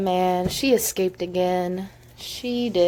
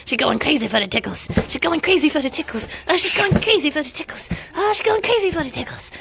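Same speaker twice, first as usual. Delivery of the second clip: each repeat higher, from usual to high; playfully winding up the chant; building sing-song; 5 semitones higher, much faster than usual. Real, not acted. Repeats phrase rising each time.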